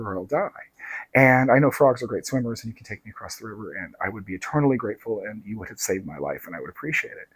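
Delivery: a hint of sweet pleading; lightly voiced coaxing scorpion; nicest way. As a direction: gently talk him into it. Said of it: "just in the nicest way".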